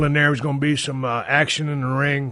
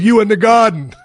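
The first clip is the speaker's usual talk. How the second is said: laughing Virginia accent impression; 7 semitones higher, 8 dB louder than usual. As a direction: tell him where he is like a Virginia ref. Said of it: "He goes".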